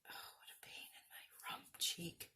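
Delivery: hushed, grumbling under breath; whispered grumble. Real, not acted. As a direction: whisper the complaint to yourself. Mishap while crafting, muttered aside.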